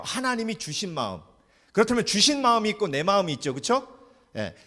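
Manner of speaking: ordinary talk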